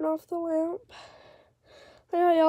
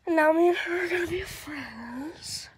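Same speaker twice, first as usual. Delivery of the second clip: whisper. Real, not acted. Whispering about the cat.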